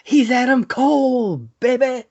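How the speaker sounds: Adam Cole catchphrase. Retold or imitated. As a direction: boast it like the wrestler himself. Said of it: "catchphrase again".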